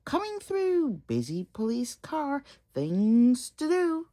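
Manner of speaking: high bossy voice; bustling police car; busy police car. Acted. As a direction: hurry everyone out of the way. Police car pushing through.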